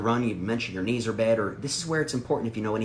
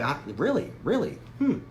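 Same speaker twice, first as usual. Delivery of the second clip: totally shocked; 2 semitones higher than usual. Shown as a demonstration. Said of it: "just be totally shocked".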